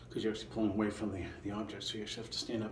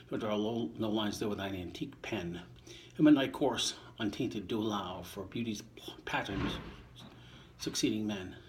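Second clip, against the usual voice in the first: poem reading. Acted. Reader reciting Shakespeare to listeners, measured poem voice. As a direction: give each line its verse shape. Reading sonnet nineteen aloud.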